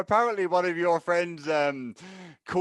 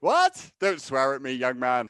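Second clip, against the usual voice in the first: mock scolding. Mock offence at supposed swearing.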